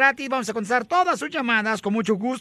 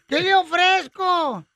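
put-on slow, higher-pitched old spinster; viejita de pueblo; 5 semitones higher, slower than usual. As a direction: ask it eagerly, drawn out and pitched up. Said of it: "dice una de viejitas". (viejita solterona, lenta y más aguda)

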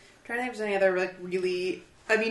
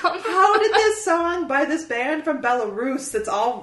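laughing disbelief; 4 semitones higher than usual. Retold or imitated. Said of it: "I was like".

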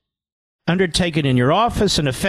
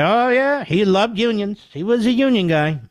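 mocking Schumer; 5 semitones higher than usual. Host mocking Schumer about his union dad, high sarcastic sing-song. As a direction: sneer it out in a goofy high voice.

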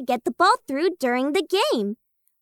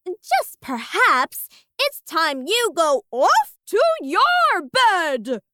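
sly suggestion; slower than usual. Acted. Alice slow sly suggestion.

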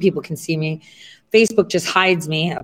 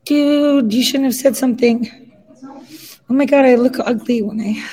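shocked; 7 semitones higher than usual. Real, not acted. Reacting to own ugly video image.

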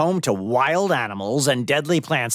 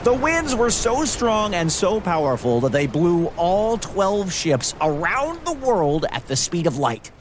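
dramatic narration; 8 semitones higher than usual. A narrator's reading. Building the storm moment.

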